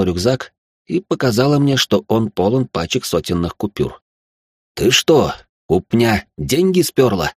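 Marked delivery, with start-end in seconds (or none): 4.7-7.3 slow, stunned exclamation; gasping shock. Acted. Narrator shocked at her bag of cash, slow stunned gasp. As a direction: drag out the disbelief. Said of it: "ахнул я".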